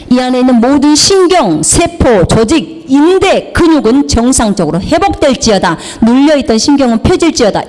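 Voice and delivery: forceful list, each item driven home; commanding prayer. Retold or imitated. Commanding a brother's nerves and muscles to heal, authoritative. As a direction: order every part to recover. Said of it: "예수 이름으로 명령한다고".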